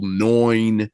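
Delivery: "noin" said with an oy sound, like noyn; mimicked Long Island vowel. Host mocking a guest's Long Island vowel, noyn. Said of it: "like the whole "noin" thing".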